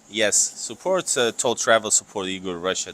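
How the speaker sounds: loud plug. Real, not acted. Loudly plugging both channels.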